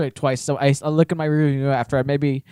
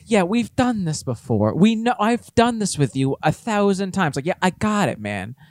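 slow sarcastic dismissal, pitched up; mock-agreeable brush-off; 4 semitones higher, slower than usual. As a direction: draw it out like you've heard it all. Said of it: "what that sarcastic thumbs up was is like".

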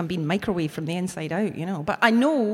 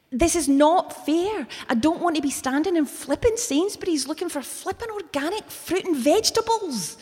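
near tears; 8 semitones higher than usual. Retold or imitated. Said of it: "I just want to cry".

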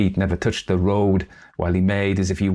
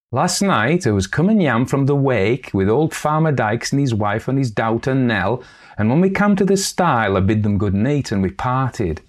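put-on young girl; 5 semitones higher than usual. Girl tells her tale.

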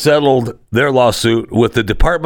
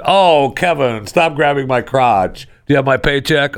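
lightly acted complaint, higher pitch; mock complaint; 5 semitones higher than usual. Staff protesting to Kevin Spacey, lightly mock-indignant. Voices staff who put up with him.

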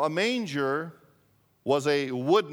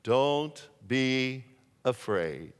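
calm the frightened shepherds slowly; gentle angel voice; 2 semitones lower, much slower than usual. Retold or imitated. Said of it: "as the angel said to the shepherds".

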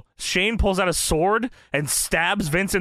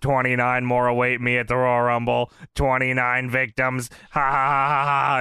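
lightly lowered wrestling promo voice; a hint of a menacing Kane promo; 5 semitones lower than usual. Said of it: "I'm gonna do it in O G Kane voice".

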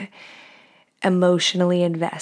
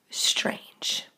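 whispered; 7 dB quieter than usual. Retold or imitated. Judging other bodies.

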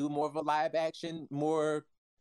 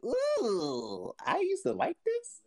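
disappointed; 13 semitones higher, slower than usual. Retold or imitated. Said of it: "I'm just like".

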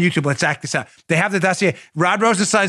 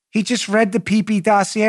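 ordinary talk, nothing marked

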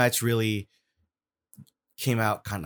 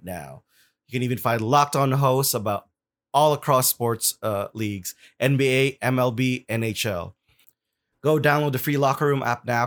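infomercial; 2 semitones higher than usual. Acted. Podcast host reads sponsor ads.

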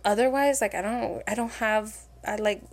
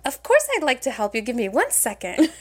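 customer service voice. Retold or imitated. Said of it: "I'll be like".

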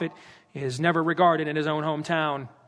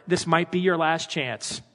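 bold Peter preaching; slower than usual. Retold or imitated. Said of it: "standing up ... and saying".

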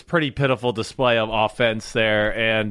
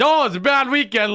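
mock moping; 10 semitones higher than usual. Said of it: "when you do well, but damn".

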